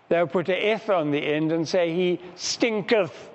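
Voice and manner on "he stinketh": slow, lightly solemn King James reading; a hint of pulpit piety, drawn out slowly; mock religious. Preacher mocking King James wording, slow and lightly solemn. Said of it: "make it sound quite religious".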